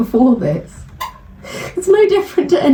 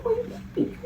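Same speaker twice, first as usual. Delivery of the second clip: put-on rising cooing baby talk, getting higher; 9 semitones higher, 9 dB quieter than usual. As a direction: coo it like talking to a baby. Baby talk cold open.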